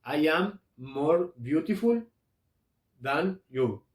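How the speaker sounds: slow English example; slow model sentence. Shown as a demonstration. Teacher models a first-person comparative, slow and deliberate. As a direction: say it deliberately for learners. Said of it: "puedo decir que".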